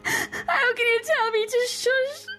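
put-on a touch of tearful panic in a young girl's voice; frightened girl. Frightened girl crying to the old woman about leaving. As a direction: let her fear crack the words.

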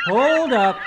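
sudden high squeaky halt; high character voice. Acted. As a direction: stop everything in a high voice. High put-on voice interrupts.

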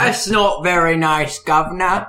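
mock Cockney. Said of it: "slipping in and out of Michael Caine".

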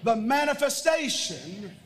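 congregation declaration. Shown as a demonstration. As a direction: proclaim it for all to repeat.

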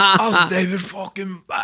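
laughing while hamming up a posh English rocker; hardcore Englishman. Retold or imitated. Retelling Billy Idol's awe at Bowie, in a high, laughing English accent. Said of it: "he went hardcore Englishman".

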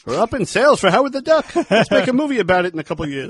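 high, excited put-on voice; mock excitement. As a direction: pitch it like a hammed-up excited executive. Acting out an excited movie pitch.

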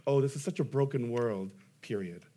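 offhand "broken world" complaint, pointing away from oneself; casual Christian cliché; dismissive complaint. Retold or imitated. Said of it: "what I love about Christians is that we say".

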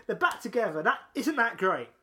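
high drawn-out cheer, then eager delight; crowd cheering. Retold or imitated. Fan retelling the crowd's joy at the tag team reunion, excited. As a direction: imitate thrilled fans celebrating a reunion.

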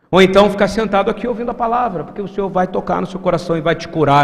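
usual speaking voice

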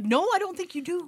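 high sassy retort. Retold or imitated. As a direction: shut it down, sassy. Retold retort, higher.

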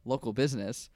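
name covered by a bleep; censored business name. Real, not acted. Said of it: "That's gonna have to get bleeped".

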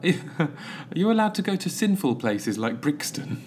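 lightly voiced girl asking a nun; a hint of a girl's voice; girl's question. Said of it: "it must have been a girl".

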